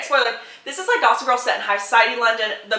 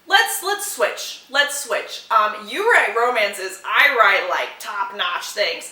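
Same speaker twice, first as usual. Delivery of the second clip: imitating him; slower than usual. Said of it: "is what he says to her".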